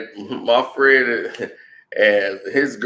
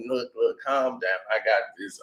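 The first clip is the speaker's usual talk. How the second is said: softer, hushed reassurance; calming down; 2 semitones lower, 9 dB quieter than usual. Retold or imitated. Teller to the freaking-out girl, soft calming tone.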